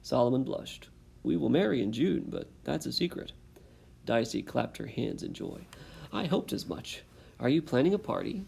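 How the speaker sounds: reading aloud to a class, character lines lightly voiced; story narration. A narrator's reading. Teacher reading a chapter book to her class, storytelling voice. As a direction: read the chapter to the students.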